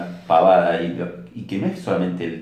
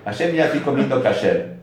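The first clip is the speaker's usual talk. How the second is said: boasting to God; 5 semitones higher than usual. Retold or imitated. Man boasting mitzvot to Hashem.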